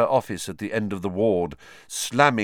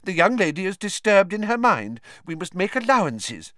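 pompous minister; 10 semitones higher, 4 dB louder than usual. Acted. Fudge placating.

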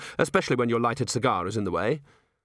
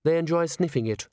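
polite dismay, raised pitch; quietly horrified; 6 semitones higher than usual. A narrator's reading. A chair explains brandy to Nobby, quietly horrified. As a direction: correct him with understated horror. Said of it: "said a quietly horrified chair".

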